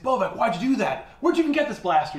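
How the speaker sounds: high-pitched mock dismay; acted dismayed questioning. Zhal questioning the shot kid, acted dismayed questioning. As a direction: send both questions up high.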